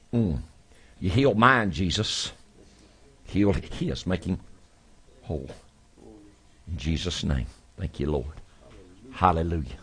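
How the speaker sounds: fervent prayer building then fading; healing prayer. Real, not acted. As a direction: pray with rising fervour, then soften. Praying over the sick.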